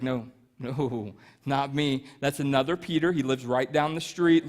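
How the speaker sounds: low, quiet acted brush-off; soft, low-pitched excuse; hushed denial. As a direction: deny it softly and low, deflecting. Peter dodging the accusation.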